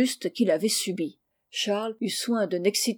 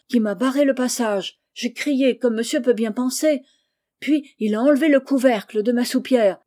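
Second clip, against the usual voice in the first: agitated servant; 3 semitones higher, 5 dB louder than usual. Acted. Servante raconte l'apparition, agitée.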